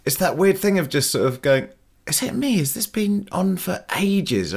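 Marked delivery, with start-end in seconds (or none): 2.1-4.5 high, slow, bewildered mock voice; mock confusion. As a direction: play a baffled viewer losing track of time. Mocking a confused film viewer.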